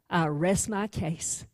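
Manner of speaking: low, soft and slow with a smug edge; quiet gloating close of the case; smug prosecutor. Acted. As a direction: savor it like he's already won. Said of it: "And he snickers".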